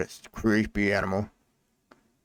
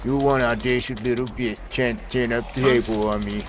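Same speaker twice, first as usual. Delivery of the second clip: a hint of a snarling punk, louder; angry thug; 5 dB louder than usual. Thug threatening the sophisticated woman, mildly angry. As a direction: spit out the threat like a street tough.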